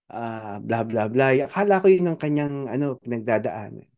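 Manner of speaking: ordinary talk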